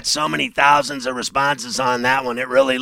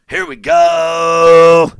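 slow, drawn-out, louder snap call; quarterback cadence call; 2 semitones higher, 5 dB louder, much slower than usual. Retold or imitated. Mocking the Cowboys offense's snap cadence. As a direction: bark it like a QB at the line. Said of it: "That's their cadence".

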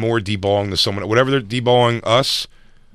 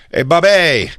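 raised-pitch mock hail to Bobby; mock greeting; 5 semitones higher, 4 dB louder, slower than usual. Retelling a friend's hello to Bobby, mock greeting. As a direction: retell an over-familiar hello. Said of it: "he goes, he went up to".

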